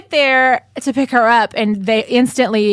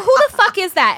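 high startled who the fuck; shocked, pitched up; mock outrage; 7 semitones higher than usual. Woman outraged at a stranger's voice, high startled. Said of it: "I'm like".

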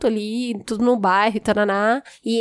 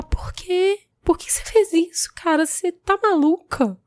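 hurt questioning; 6 semitones higher than usual. Retold or imitated. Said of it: "Eu só conseguia falar isso".

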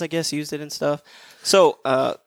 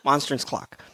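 quicker, run-together MONSTRANCE CLOCK; said fast; 6 dB quieter than usual. Shown as a demonstration. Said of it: "If I say it fast".

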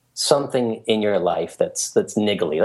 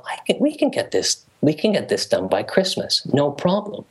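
excited; 5 semitones higher than usual. Retold or imitated. Inner voice, rushed optimism.

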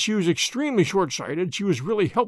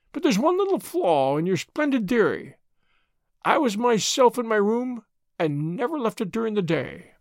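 lightly voiced old professor, higher pitch; old professor, protesting; 4 semitones higher than usual. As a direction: object in a slightly raised professor's voice. Old professor's dialogue in narrated story.

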